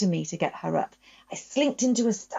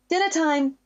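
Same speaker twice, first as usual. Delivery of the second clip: mum calling from downstairs, higher and louder; 9 semitones higher, 3 dB louder than usual. Acted. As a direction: call the family to the table. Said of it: "Mum calls from downstairs".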